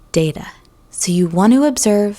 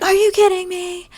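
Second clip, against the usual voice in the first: much higher, mock freak-out squeal; freaking-out TikTok girl; 13 semitones higher than usual. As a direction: imitate a girl losing it online, shrill and sudden. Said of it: "that girl freaks out".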